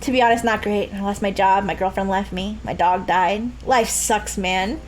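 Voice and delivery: low, downcast mock oversharing; mock gloomy confession. Customer dumps their troubles on a cashier, mock gloomy confession. Acted trauma dump answering small talk.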